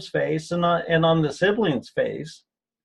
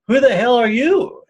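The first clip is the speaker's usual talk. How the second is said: higher and louder, a sudden angry challenge; retold angry outburst; 5 semitones higher, 5 dB louder than usual. Man reliving his anger erupting at his psychiatrist, louder and higher. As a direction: let the long-held anger burst out at the psychiatrist.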